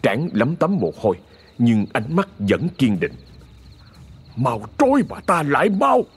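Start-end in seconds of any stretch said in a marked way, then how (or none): 4.4-6.1 commanding order. A narrator's reading. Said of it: "Ông ra lệnh".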